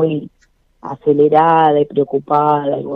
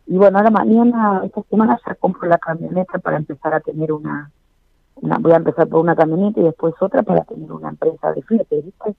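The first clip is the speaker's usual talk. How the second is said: muffled, boomy close-mic voice; too close to mic; faster than usual. Real, not acted. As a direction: mouth right on the mic. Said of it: "no te acerques tanto al micrófono".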